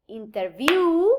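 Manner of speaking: "interview" said carefully with a strong, long VIEW; demonstrated word stress. Shown as a demonstration. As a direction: spell out the beats of "interview", leaning on VIEW. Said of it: "the main stress of the word".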